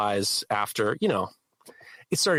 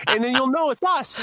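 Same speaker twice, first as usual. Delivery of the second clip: mock threat; 11 semitones higher, 5 dB louder than usual. Retold mock threat to relight fire.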